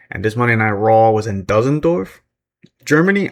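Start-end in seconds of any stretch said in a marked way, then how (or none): 2.8-3.3 Germany said with a sharp high lift; a careful go at saying Germany; unsure attempt at Germany; attempted German name. Real, not acted. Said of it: "I hope I didn't botch that".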